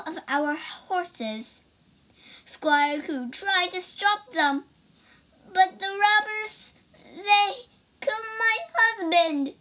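high, rushed and near tears; breathless. Acted. Lady Ku reports the robbery to the judge, breathless. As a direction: gasp out the story, rising to a wail. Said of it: "said Lady Ku breathlessly".

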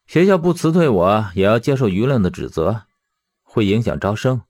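understated, accepting explanation; matter-of-fact resignation. Acted. Fired teacher explaining the fallout to his friend, resigned. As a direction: lay it out without anger. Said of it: "表情淡然的道".

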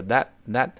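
"that" cut off with the t held, not released; unreleased final t. Shown as a demonstration. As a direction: say "that，that" without popping the final t. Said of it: "最后那个t失去爆破了". (that结尾t失去爆破)

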